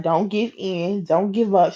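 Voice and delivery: soft, steady retold reassurance; gently encouraging. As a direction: coworker gently urging her on. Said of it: "encouraging me".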